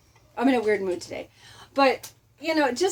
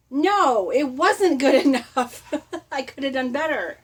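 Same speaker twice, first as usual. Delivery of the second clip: louder, slower insistence that it wasn't good enough, breaking into a laugh; regretful correction; 3 semitones higher, 4 dB louder than usual. Retold or imitated. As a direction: correct yourself on looking back. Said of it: "then I look back and go".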